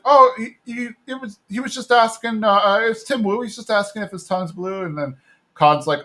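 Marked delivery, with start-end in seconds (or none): 0.0-4.8 Connie. Retold or imitated. Connie voiced, flustered excuse.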